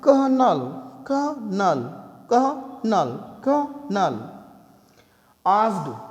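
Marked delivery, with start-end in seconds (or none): 0.0-4.4 "कर्नल" said ker-nel, no o sound; colonel as kernel. Shown as a demonstration. Teacher showing students the English way to say colonel. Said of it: "आप बोलेंगे".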